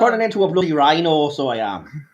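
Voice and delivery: a shaky stab at a Northern Irish lilt; badly faked Irish accent, playing the rhino woman; attempted Irish accent. Doing a bad Irish accent for the podcast crew. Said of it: "What was that accent? She's Irish!".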